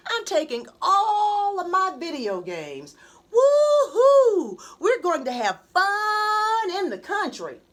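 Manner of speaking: bouncing with excitement; excited boy. A narrator's reading. Boy jumping on sister's bed, excited and loud.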